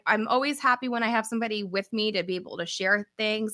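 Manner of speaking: ordinary talk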